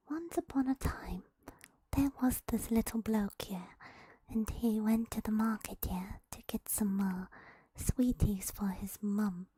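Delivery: whispered mock British accent. Shown as a demonstration. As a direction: tell it like a cheeky British storyteller. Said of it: "Read a British tale with British accent".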